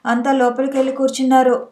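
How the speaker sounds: ordinary delivery, nothing marked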